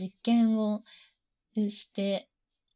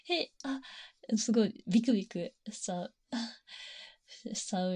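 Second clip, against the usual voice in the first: flustered heroine. Acted. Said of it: "みたいな".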